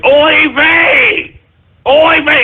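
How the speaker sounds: high, exasperated oy vey; mock exasperation. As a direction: throw up your hands. Exasperated outburst.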